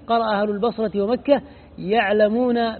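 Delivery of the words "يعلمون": "يعلمون" read slowly, starting with the ya sound. Shown as a demonstration. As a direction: spell out "يعلمون" slowly with an initial ya. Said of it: "بالياء".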